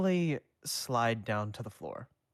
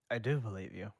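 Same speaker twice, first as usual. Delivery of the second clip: gentle; faster than usual. A narrator's reading. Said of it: "Danny said gently".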